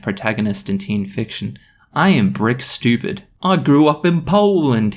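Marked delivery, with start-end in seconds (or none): 3.4-5.0 higher, hammed-up British voice; proud caricature Brit; proud British accent. British boy proud of Polish upbringing, exaggerated British accent. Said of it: "he said proudly".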